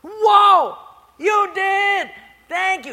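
very high, loud whoa; delighted surprise. Retold or imitated. Poor lady finding groceries, thrilled and very high. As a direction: gasp with joy at the gift.

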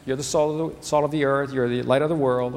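"You're the salt of the earth" tossed off lightly, no weight on any word; casual, offhand reading. Shown as a demonstration. Pastor to congregation, mocking a casual reading of the verse. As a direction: read it like a passing, throwaway line. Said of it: "receive it in more of a casual sense".

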